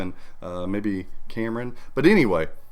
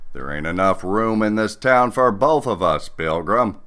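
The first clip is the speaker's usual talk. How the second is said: John Wayne impression. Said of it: "the John Wayne?".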